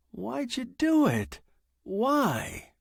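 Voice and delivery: high, tense and rattled; a man on the edge of panic; agitated young writer. Acted. Fred confronts the machine.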